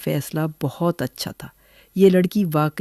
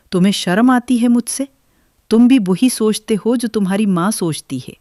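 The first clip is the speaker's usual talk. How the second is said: higher and louder, accusing her husband; angry outburst; 5 semitones higher, 4 dB louder than usual. Acted. Nazia to her husband Waseem, higher, louder angry accusation. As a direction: let the anger break out, high and loud.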